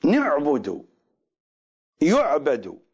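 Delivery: نعبد with an i vowel as nibudu, then يعبد with a y; variant reading. Shown as a demonstration. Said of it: "يقرؤونها". (نعبد بالكسر ثم يعبد بالياء)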